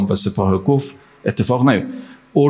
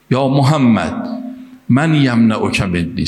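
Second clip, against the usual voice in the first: drawn-out challenge, only slightly raised; mild retold shout; slower than usual. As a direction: call out slowly, a restrained imitated yell. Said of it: "فریاد زد". (فریادِ ملایم و کشیده در نقل داستان)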